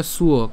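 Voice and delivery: "সুয়" said as su-o, with an audible u glide; teacher's careful "সুয়", su-o; shown pronunciation. Shown as a demonstration. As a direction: sound out "সুয়" as su plus o. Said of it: "এরপর এটা কেমন হবে".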